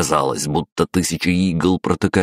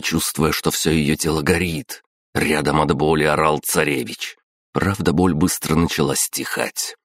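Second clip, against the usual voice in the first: ordinary delivery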